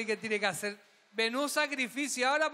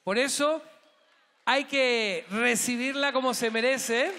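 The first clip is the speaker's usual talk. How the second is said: gala announcer. Acted. Gala host whips up the audience for Drag Sira, booming. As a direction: build the crowd up for the next act.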